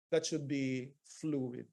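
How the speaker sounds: ordinary delivery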